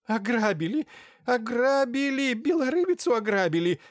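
high, shrill, loud shriek; shrieking holy fool. A narrator's reading. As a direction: squeal it out from the armchair. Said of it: "заверещал из кресла Марфуша".

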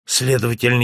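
ordinary delivery

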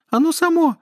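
very high, loud frightened squeal; panicked mermaid squeal. Acted. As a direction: shriek out the denial. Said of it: "завизжала русалка".

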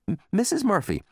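nervous stammer. Acted. Boy nervously asks.

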